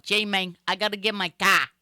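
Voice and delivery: put-on Boston accent from Spanish-speaking pupils, CAR without its R; Spanish speakers' Boston English. Imagined Spanish pupils of a Bostonian teacher, mock Boston accent. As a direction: imitate learners parroting a Boston accent. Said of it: "a bunch of Spanish people going".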